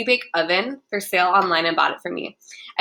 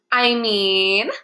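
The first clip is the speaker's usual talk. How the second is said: drawn-out sing-song lilt swinging up at the end; 3 dB louder than usual. A narrator's reading. Clarissa answers the boys, in a sing-song voice. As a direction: let it lilt up teasingly. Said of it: "says in a sing-song voice".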